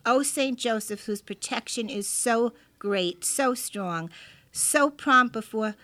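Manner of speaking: reverent prayer reading. Acted. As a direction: read it like a devout prayer. Reads a prayer aloud.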